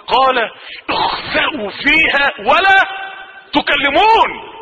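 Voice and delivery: slow, shouted Quranic rebuke; stern recitation. Acted. Preacher reciting God's rebuke of hell's people, slow shout. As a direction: thunder the verse out slowly.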